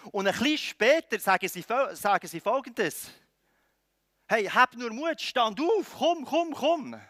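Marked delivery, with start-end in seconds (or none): 4.3-7.0 higher, eager urging; rousing call to come along; encouraging. Acted. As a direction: coax someone up onto their feet. Crowd now encouraging the beggar.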